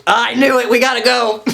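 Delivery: high, loud, frantic yell; urgent shout. Acted. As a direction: shout it as a rush to leave. Acted urgent outburst after the alarm.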